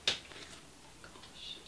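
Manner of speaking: whispered, barely audible gosh; breathless gosh. Real, not acted. Overwhelmed vlogger whispering over the yarn gift. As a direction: let it out on a breath.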